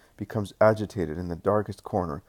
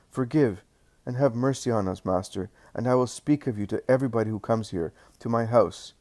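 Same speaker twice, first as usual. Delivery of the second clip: a lightly voiced innkeeper, higher and urgent, begging; pleading innkeeper; 4 semitones higher than usual.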